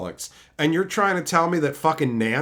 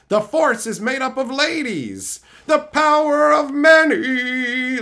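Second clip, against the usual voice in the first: mock solemn voice; 9 semitones higher, 5 dB louder, slower than usual. Mocking the franchise's message.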